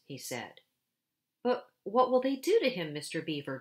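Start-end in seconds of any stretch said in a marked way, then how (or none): 1.4-3.6 high, loud, frightened gasp of a question; Lucy gasping in fear; gasping, alarmed plea. A narrator's reading. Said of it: "gasped Lucy".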